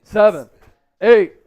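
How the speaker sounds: punched numbers, each one falling; counting jumping jacks. Real, not acted. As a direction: count out each rep mid-jump. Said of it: "I gotta do twenty-five jumping jacks".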